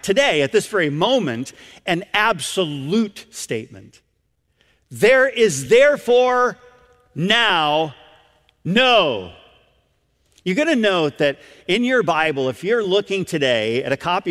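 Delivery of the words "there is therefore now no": slow, weighty THERE IS THEREFORE, then NOW and NO set apart; emphatic declaration. Real, not acted. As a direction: pause before NOW and again before NO. Emphatic verse declaration in sermon.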